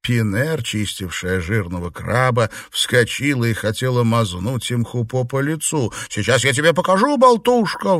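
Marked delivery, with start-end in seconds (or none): 6.1-8.0 fast, higher, louder joking threat; jokingly furious, much higher and louder; mock scolding. A narrator's reading. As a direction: lunge at her in pretend anger. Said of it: "В шутку напустилась она".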